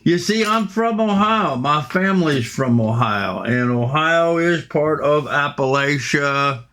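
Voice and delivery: light Appalachian hillbilly twang. Pretend. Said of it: "slip into my high hillbilly voice".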